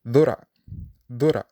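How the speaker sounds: dhura with a light, voiced dh; plain dh. Shown as a demonstration. Teacher modelling plain dh in dhura. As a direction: dhura said clearly. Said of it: "the non-emphatic letter".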